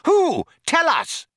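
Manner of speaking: loud, very high eager cries; urgent demand. A narrator's reading. Both men demanding a name from computer, urgent. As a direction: burst out desperate to know.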